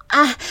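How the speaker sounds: short, sharp whimper; whimpered cry. A narrator's reading. Woman breathless and overwhelmed, whimpered cry. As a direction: let a brief cry escape. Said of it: "squeezing whimpered cries from me".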